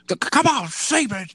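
high, loud stammered urging; mock egging-on. Boss egging commentators on in the headset, mock loud urging. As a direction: goad them with a hammed-up outburst. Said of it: "if him just being like".

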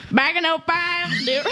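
put-on hick Utah accent. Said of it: "best hick Utah".

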